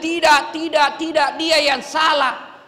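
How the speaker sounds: mock stubborn denial. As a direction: play the stubborn inmate blaming others. (penyangkalan keras mengejek)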